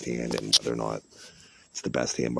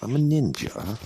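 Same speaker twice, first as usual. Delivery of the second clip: put-on Jamaican accent; 10 semitones higher, 4 dB louder than usual. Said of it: "Jamaican ... voice".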